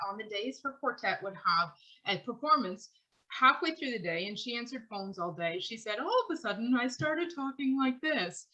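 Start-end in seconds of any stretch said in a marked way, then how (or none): 6.0-8.4 a touch higher and lighter, imitating head tone; slightly lifted, weightless speaking voice. Singer quoting how her voice sounded on show days, mildly higher. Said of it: "that weird voice on".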